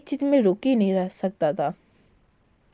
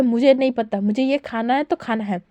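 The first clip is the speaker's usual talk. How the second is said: mild mock shout. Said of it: "चिल्ला के बोलता है".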